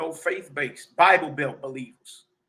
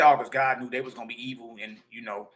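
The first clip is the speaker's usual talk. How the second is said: lightly voiced fast mocking believer; preacher mocks a believer's excuse, lightly voiced and fast; 4 semitones lower than usual. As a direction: brush off the question quickly in a mocking voice. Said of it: "mumble mouth Negro say".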